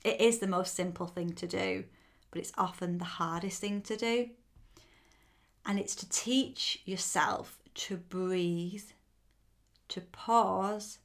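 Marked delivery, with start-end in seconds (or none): 5.6-11.0 whispering. Shown as a demonstration. Teaching to breathe, pausing.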